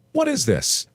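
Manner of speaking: mock puzzled question. Narrator mimicking himself, asking the family in fake confusion. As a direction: play dumb asking about the potato. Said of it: "So I asked".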